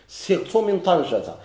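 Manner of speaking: سرت من طنجة slowly, leaning on من; slow example phrase. Shown as a demonstration. Teacher gives a new example to the class, slow and deliberate. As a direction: stretch out سرت من طنجة, hitting من. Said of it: "هاد سرت باش وصلت من طنجة".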